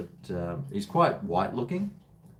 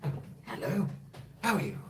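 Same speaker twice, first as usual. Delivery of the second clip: Brian impersonation; 7 semitones higher than usual. Retold or imitated. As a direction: play the overly friendly neighbour with a lifted English lilt. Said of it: "my Brian impersonation".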